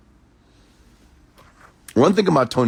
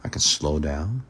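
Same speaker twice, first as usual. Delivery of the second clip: slow down. Shown as a demonstration. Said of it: "See what I'm doing there?".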